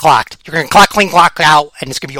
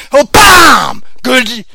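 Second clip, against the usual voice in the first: loud, high knockout call; excited bam; 4 semitones higher, 3 dB louder, much slower than usual. Acted. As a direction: shout it like the punch just landed. Calling a knockout punch.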